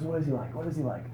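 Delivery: high, bubbly, laughing chatter; eager to please his friend; giddy planning. Retold or imitated. Mike planning the drive, giddy and laughing.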